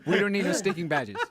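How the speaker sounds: mock Latin accent. Shown as a demonstration. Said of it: "do the badges thing".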